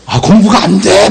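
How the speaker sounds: slow, drawn-out fake moan; feigned complaint. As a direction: stretch out a put-on complaint. Rival feigns trouble studying.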